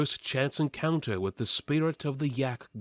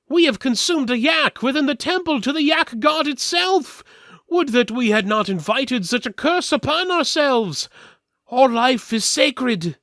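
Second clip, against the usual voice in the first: much higher, louder, prim disapproving voice; solemn twin; 13 semitones higher, 7 dB louder than usual. Acted. Surviving twin to the party, high and prim. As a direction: mourn and scold in one. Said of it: "the twin that was still alive said".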